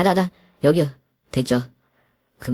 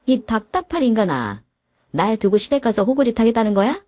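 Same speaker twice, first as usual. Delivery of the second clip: higher, frustrated reproach; exasperated scolding; 6 semitones higher than usual. Acted. Wife scolds her spineless husband, higher and exasperated. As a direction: vent your frustration at him.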